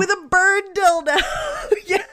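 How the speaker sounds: repeats it through real laughter, pitch jumping up; cracking up mid-phrase; laughing. Real, not acted. Echoing her cohost's bird dildo line, laughing.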